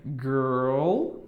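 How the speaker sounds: put-on girl with an American curled R; English r-coloured girl; English girl demo. Shown as a demonstration. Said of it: "Fica desse jeito".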